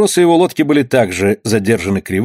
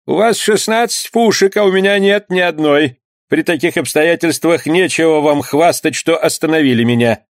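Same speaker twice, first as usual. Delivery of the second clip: put-on a bold, much higher old skipper's voice; bold reply; 6 semitones higher than usual. Skipper Benoit boldly answers the armed bandits. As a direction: answer back boldly and high. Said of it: "отвечал ему смело".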